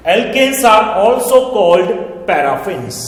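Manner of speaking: very slow, each word spaced for note-taking; slow dictation. Shown as a demonstration. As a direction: dictate it word by word so students can write. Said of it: "sentences अब आगे बढ़ाइएगा". (धीमा dictation, शब्द-शब्द अलग)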